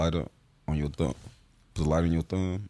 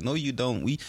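lightly imitated white girls, higher and correcting; higher voice of girls picking at pronunciation; mock white girls; 5 semitones higher than usual. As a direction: mimic the white girls insisting, pitched up. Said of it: "They'd be like".

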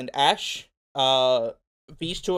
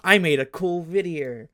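raised, excited retelling of a proud moment; excited self-quote; 3 semitones higher, 3 dB louder than usual. Retold or imitated. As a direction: act out being wowed by your own work. Acting out own pride in a video.

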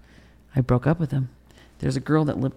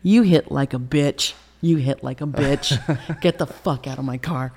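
loud taunt breaking into a laugh; re-enacted laughing-off, drawn out and goading; defiant laughter; 7 dB louder, slower than usual. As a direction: turn the hurt into a mocking laugh. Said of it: "I turned it into laughter".

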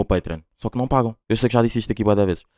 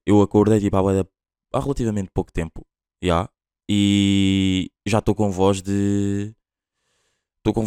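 rough morning-after voice; just woke up and hungover; slower than usual. Real, not acted. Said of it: "acham que estou com voz de ressaca ou não?".

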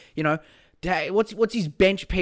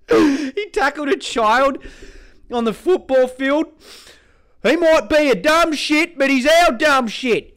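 mock proud voter; 7 semitones higher, 5 dB louder than usual.

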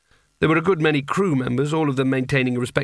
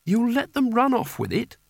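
high, incredulous question; genuine astonishment; 10 semitones higher than usual. A narrator's reading. Kanina hears Rincewind will abandon the hat, astonished. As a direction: pitch leaping up in disbelief. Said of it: "said Kanina in genuine astonishment".

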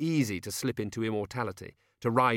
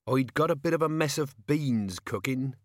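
put-on higher rustic old man's voice; humble old peasant; 5 semitones higher, 4 dB louder than usual. A narrator's reading. Old man excusing his supper to visitors, humble. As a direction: play a poor old countryman, pitched up.

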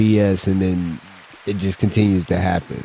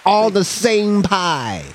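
slow emphatic; 11 semitones higher, much slower than usual. Real, not acted. Rant punchline, drawn out.

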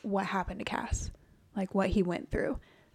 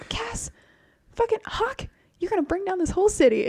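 high-pitched exasperated scolding; mock scolding; 10 semitones higher, 4 dB louder than usual. Host acts out a woman berating Cass, high mock exasperation. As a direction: scold him in a raised, put-on voice.

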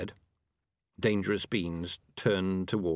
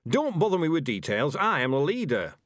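raised, irritable rat leader voice; testy leader; 7 semitones higher, 4 dB louder than usual. A narrator's reading. Ham and Pork dismisses Peaches before stalking off, testy. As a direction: brush off details and assert rank.

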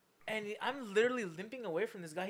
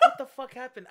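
dazed laughing disbelief; 3 semitones higher, 11 dB louder than usual. Retold or imitated. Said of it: "and I'm like".

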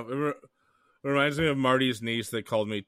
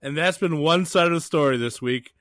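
mock host outro; 4 semitones higher, 7 dB louder than usual. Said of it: "mock show outro".

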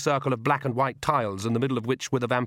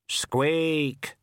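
grave, falling squeak; a tiny Death answering solemnly; death of rats squeak; 4 semitones higher than usual. A narrator's reading. The Death of Rats answering the rat, grave squeak. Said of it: "said the death of rats".

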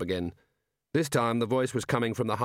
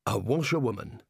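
mildly hopeful, scheming prisoner; perked up, feigning casual interest; brightened; 5 semitones higher than usual. A narrator's reading. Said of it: "Rincewind brightened".

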